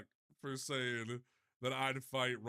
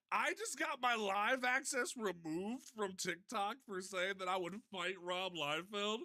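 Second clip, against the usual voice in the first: can't believe what you just read; shocked, higher-pitched rant; incredulous outburst; 7 semitones higher than usual. Real, not acted. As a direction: voice jumps high in disbelief. Live access removed, reacting.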